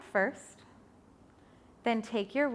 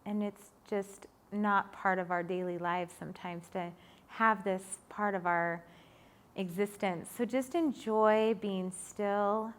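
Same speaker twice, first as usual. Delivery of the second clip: guided relaxation; 3 semitones lower, 5 dB quieter than usual. Acted. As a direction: ease them into stillness gently. Guides final relaxation pose.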